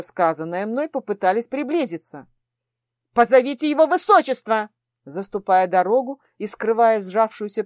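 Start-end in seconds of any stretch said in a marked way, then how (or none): 3.1-4.7 a louder commanding call for the prince; firm demand. Acted. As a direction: insist with authority. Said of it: "потребовала я".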